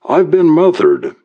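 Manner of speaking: high-pitched, alarmed Irish complaint; yelp. A narrator's reading. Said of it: "he yelped".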